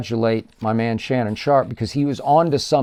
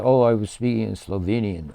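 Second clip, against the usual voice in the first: mock innocent Luka; 3 semitones lower, 3 dB quieter than usual. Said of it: "gentle Luka, who never says".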